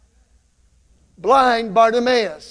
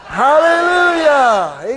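loud, high cheer of praise with long vowels; exultant hallelujahs; 4 semitones higher, 6 dB louder, slower than usual. Real, not acted. Preacher leading church in three more hallelujahs, loud exultant cheer. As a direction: shout praise to Jesus, drawing it out. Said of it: "give Jesus three more hallelujahs".

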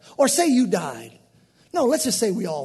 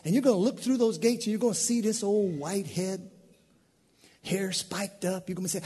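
usual speaking voice

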